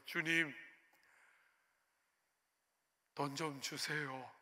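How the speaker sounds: quietly beg, drawing it out; earnest prayer. Retold or imitated. Broke student abroad praying to God for rent, soft and earnest. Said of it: "간절히 기도했어요".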